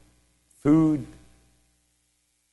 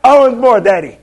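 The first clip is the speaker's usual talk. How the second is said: high, loud, laughing through the words; giggle, then demand it like a spoiled child; gleeful laughing; 11 semitones higher, 8 dB louder than usual. Retold or imitated. Preacher begging Father God for more, laughing and high.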